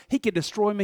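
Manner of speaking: the restrained version; toned-down take. Shown as a demonstration. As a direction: pull it back and say it quietly. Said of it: "let's not go that far with this".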